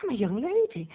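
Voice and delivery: high, soft giggle into prissy refusal; giggling prim lady. Retold or imitated. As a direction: titter like a coy debutante. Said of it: "and she's like".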